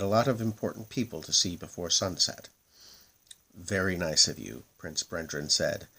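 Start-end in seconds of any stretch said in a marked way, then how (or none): 3.5-4.6 a dry, mildly sarcastic thanks; lightly mocking politeness. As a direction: say it like you don't mean it. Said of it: "rather sarcastically".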